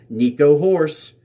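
reads the name through a laugh, slowly; chuckling as he reads the name out. Real, not acted. Reading a silly comment aloud, laughing.

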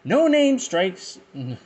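high, slow cackling villain voice; Joker voice. Retold or imitated. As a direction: stretch it out like the Joker. Joker voice quote start.

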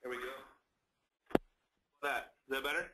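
phone line echoing like a tunnel; hollow echo over a bad line; echoey, like a tunnel. Real, not acted. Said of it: "it sounds more echoey to me".

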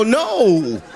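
mock retort. Retorting to breath excuse.

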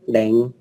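"đánh" with E in place of A; vần E tiếng Thái. Shown as a demonstration. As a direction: say "đánh" the Thai way, like "đeng". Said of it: "là vần E đấy". ("đánh" đọc thành "đeng" kiểu tiếng Thái)

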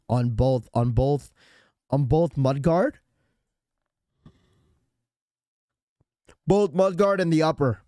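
raspy, sick throat; hoarse voice. Real, not acted. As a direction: speak through a sore throat. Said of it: "God, my voice is terrible right now".

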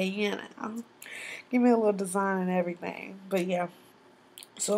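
talking while chewing gum. Real, not acted. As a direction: gum smacking between words. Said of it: "I won't have this gum in my mouth smacking like that".

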